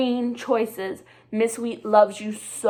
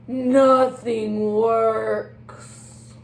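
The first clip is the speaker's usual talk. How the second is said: mock despair; 4 dB louder, much slower than usual. Penguin's despair, drawn out.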